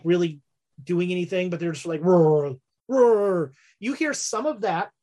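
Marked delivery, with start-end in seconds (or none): 2.0-3.5 mock tiger roar. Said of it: "low rumbling roar of tigers".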